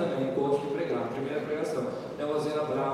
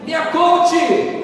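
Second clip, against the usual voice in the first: drawn out, high and loud; slow loud exclamation; 9 semitones higher, 10 dB louder, much slower than usual. Real, not acted. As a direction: stretch it out and proclaim it. Exclaiming about grandma. (exclamação lenta e alta)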